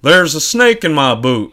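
pull string toy. Acted. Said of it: "That was better".

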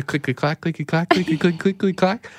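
quick, light click-clack patter; imitated keyboard clacking. Storyteller imitates the store clerk at the keyboard, rattling clicks and clacks. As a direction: mimic busy typing with your mouth. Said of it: "clacking all over the keyboard".

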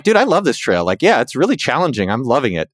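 high, enthusiastic retort; retold enthusiasm, starting high and settling; upbeat contradiction. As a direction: gush in cheerful disagreement. Saying the opposite to the complainers.

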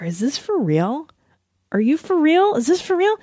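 incredulous questions climbing high; mock incredulity. Imagining her reply to her husband, mock incredulous. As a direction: start hushed, then squeak in disbelief. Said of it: "I'd be like".

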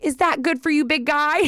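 put-on patronizing baby talk. Waitress talks down to dad.

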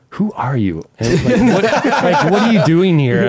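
high, laughing through the words; amused can't-believe-it question; giggling who-are-you; laughing disbelief. Retold or imitated.

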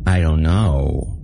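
slow, exaggerated baby mumble. A narrator's reading. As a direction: overdo the babyish murmur. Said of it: "Her baby voice was much more exaggerated".

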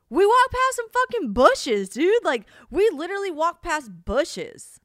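high, loud, slow, exasperated; can't believe it, spell out the absurdity; incredulous rant. Real, not acted. Complaining the Nashville scene showed bushes, incredulous rant.

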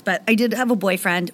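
burp mid-sentence. Real, not acted. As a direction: let a burp slip through the words. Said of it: "I just burped while I said that".

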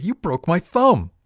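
high, loud, drawn-out wail; agonised, accusing yell; pained cry. A narrator's reading. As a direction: howl it slowly in outraged pain. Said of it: "he cried".

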